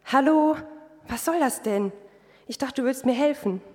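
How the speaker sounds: half-annoyed, reproach God for not helping; annoyed complaint. Retold or imitated. Woman complaining to God after three mishaps, mildly annoyed. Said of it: "klagte ich Gott verärgert an".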